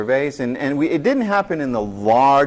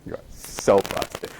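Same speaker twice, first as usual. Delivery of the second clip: 1 whispered taunt; 4 semitones lower, 4 dB quieter than usual. Retold or imitated. Classmates whisper at caught student.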